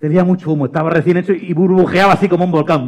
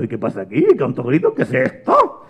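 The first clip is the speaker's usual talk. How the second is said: grumbling bat; 5 semitones lower than usual. Acted. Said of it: "el murciélago dijo".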